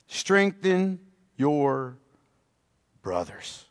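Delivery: fading hush. Acted.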